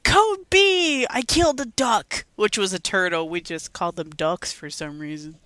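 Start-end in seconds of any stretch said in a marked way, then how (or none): 0.0-2.2 loud, high mock alarm, easing down; mock emergency call. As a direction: call out the code like a playful distress signal. Acting out childhood emergency codes.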